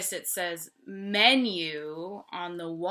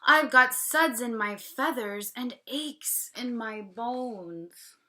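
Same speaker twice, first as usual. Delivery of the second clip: lightly voiced moaning duck; 4 semitones higher, 4 dB louder than usual. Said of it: "the duck moans".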